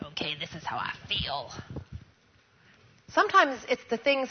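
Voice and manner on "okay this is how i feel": soft prayer. Retold or imitated. Quiet retold prayer.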